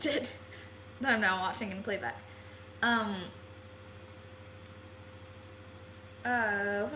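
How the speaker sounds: chatty put-on British accent held throughout; casual mock British accent. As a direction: keep the British accent going as you chat. I'm enjoying talking in a British accent.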